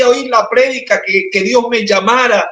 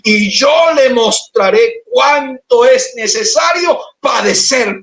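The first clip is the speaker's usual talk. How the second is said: proclaiming shout; 4 semitones higher than usual. Acted. Preacher booming God's promise to the congregation, slow shout. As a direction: call it out as the Lord's words, slowly. Preacher voicing the Lord's words.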